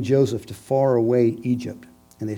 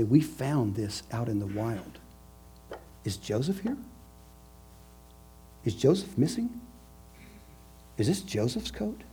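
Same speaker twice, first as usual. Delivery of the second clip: soft, lightly raised mock-innocent questions; playing dumb; 9 dB quieter than usual. Brothers feigning innocence to their father, soft and mock-innocent. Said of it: "they play stupid".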